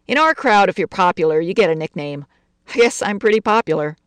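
lightly voiced boastful teenager; brash teen girl. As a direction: show off to the new kid. Betty introduces herself.

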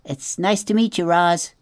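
high squeaky little opossum. Acted. Opossum answering the robot in a high squeaky voice.

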